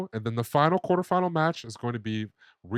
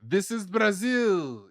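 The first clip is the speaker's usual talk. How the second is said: drawn-out, higher-pitched movie-star impression; Vin Diesel; 9 semitones higher, 4 dB louder, much slower than usual. Quoting a film star about Brazil's heat, playful impression. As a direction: stretch it out slowly, pitched well up. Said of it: "my best Vin Diesel voice".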